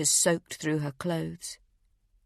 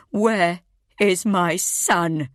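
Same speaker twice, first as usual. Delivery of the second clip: desperate demand; 4 dB louder, slower than usual. Acted. Mother confronting her son's captors.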